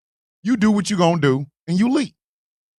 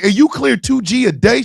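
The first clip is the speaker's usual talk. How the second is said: retold disbelief, rising at the end; incredulous question; 3 semitones higher than usual. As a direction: ask it as if checking the unbelievable. He asks her in amazement.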